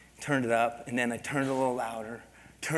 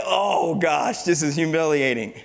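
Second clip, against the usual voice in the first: embarrassed aside; 3 semitones higher, 8 dB louder than usual. Retold or imitated. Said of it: "I was like".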